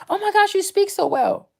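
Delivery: high-pitched gushing imitation; mock gushing compliment. Stranger praising a Black woman's speech, mock gushing.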